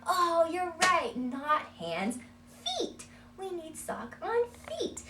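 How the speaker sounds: high, loud, slow "Oh, you're right"; playful correction. Shown as a demonstration. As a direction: ham up the mistake for the child. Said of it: "opens up that door".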